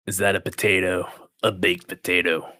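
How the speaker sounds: put-on Gordon Ramsay-style British accent, scornful, slowed down; mock British chef sneering at the food; fake British accent. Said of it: "it's my fake British accent".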